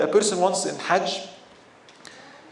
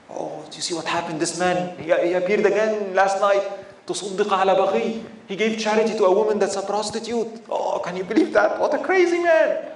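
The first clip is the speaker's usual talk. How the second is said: mocking gossip; 3 semitones higher than usual. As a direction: jeer at the crazy giver. Townspeople mock again.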